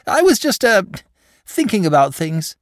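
lightly voiced simple dragon. A narrator's reading. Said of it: "in his simple way".

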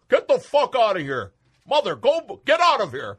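loud, high angry yell. Acted. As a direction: shout her out of the room. Santa yelling at wife.

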